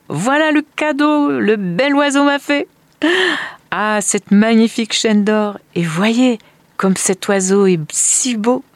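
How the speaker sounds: high, exclaiming show-and-tell; thrilled father. Acted. Man shows family the gold chain, thrilled. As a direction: show off the gift with breathless admiration.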